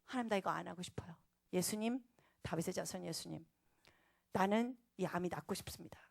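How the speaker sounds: soft re-enacted plea; quiet sincere prayer. Woman asking Jesus to heal her cancer, praying quietly.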